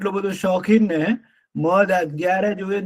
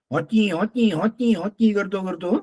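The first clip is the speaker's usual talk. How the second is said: donkey bray; 3 semitones higher than usual. Acted. Donkey brays as he runs to the tree. Donkey braying while running.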